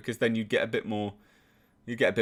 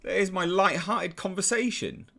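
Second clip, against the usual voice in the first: mock offering handouts; 7 semitones higher than usual. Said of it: "and then go".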